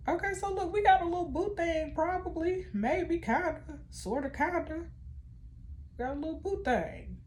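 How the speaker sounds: high, giddy teasing about a crush; playful gossip voice; teasing excitement. Real, not acted. Gushing over son's little romance.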